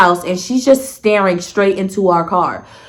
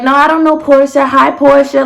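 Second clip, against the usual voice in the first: higher, friendly mock-sociable voice; imitating friendly greeting; 5 semitones higher than usual. Woman greeting her date's friend in the back, friendly. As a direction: act out a sweet, lifted hello. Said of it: "she's mad nice to me".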